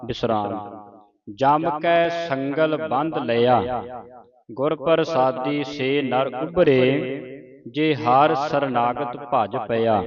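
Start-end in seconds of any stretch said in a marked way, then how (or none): 1.3-10.0 slow, drawn-out Gurbani recitation; scripture recitation. Shown as a demonstration. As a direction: recite slowly, stretching the long vowels. Teacher recites scripture for pupil.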